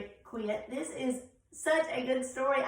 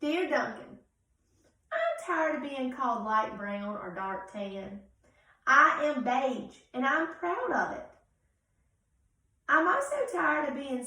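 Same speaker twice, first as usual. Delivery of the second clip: indignant beige crayon, loud at first; a slighted crayon standing up for itself; proud crayon; 4 dB louder than usual. Acted. Reads Beige Crayon's letter.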